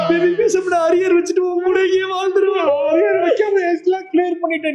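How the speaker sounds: hammed-up crying. Lover crying at parting.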